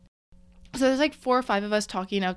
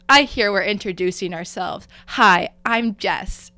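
loud, over-confident self-introduction; big hello, imitating a friend; outgoing introduction; 7 dB louder than usual. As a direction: imitate an overly outgoing newcomer announcing herself. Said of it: "you were really outgoing".

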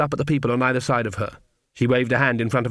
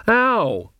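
high, sharp "ow"; sudden high-pitched cry of pain; pained yelp; 10 semitones higher, 4 dB louder than usual. Acted. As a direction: yelp briefly in surprise. Magrat's mask is pulled off.

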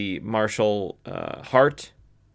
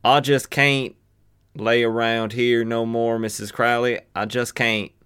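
Jonah Hex. Shown as a demonstration. Jonah refusing to lay around Missus Crowley's, Southern accent. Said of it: "we'll do some pronunciations".

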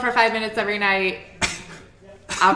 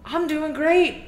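slow carefree; 7 semitones higher, slower than usual. Retold or imitated. Voicing carefree old woman.

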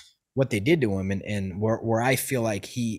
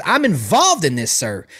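raised, louder voice, stern and heated; angry scolding; 2 semitones higher, 6 dB louder than usual. Retold or imitated. Driver pulls over and scolds the passenger, heated and loud. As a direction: chew him out like a furious soldier.

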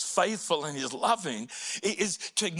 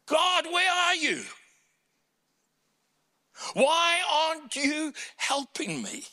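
much higher, louder pleading cry; high anguished plea, louder; 12 semitones higher, 3 dB louder than usual. Retold or imitated. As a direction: cry out to God in despair. Voicing the heart's cry.

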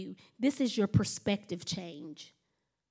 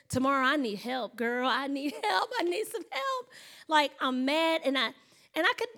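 embellished distress. Retold or imitated. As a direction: pitch climbing into a mock-frantic plea. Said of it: "I'm kinda adding a little bit".

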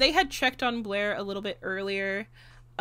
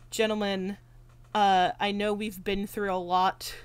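understated, composed imitation of Gary; politely measured retold request; so calm. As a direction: keep it level and restrained. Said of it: "like, so calm".

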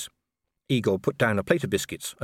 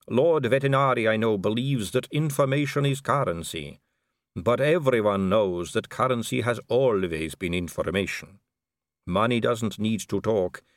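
measured vampire aristocrat, pitched up; smooth vampire lady; 4 semitones higher than usual. Acted. Vampire explaining money and information to Vimes, measured. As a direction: instruct him with unhurried poise.

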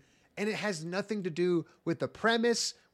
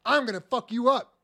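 tag; 4 semitones higher, 4 dB louder than usual. Acted. Acted threat to the demon.

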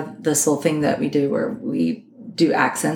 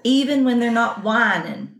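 Arkansas accent; 4 semitones higher than usual. Shown as a demonstration. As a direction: draw the vowels out Arkansas style. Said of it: "they really draw out their words".

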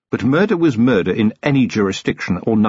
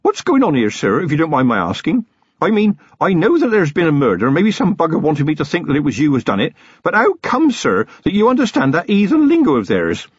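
a nervous lad pouring out questions; young constable Feeney, rattled; 7 semitones higher than usual. A narrator's reading. Young constable pressing Vimes about the goblin language, worked up.

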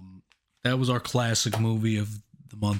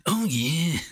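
higher put-on sleazy voice; leering caller's approval, pitched up; Ken Kniff; 6 semitones higher than usual. Echoing a friend's caller impression, high sleazy voice. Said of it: "sound like Ken Kniff".

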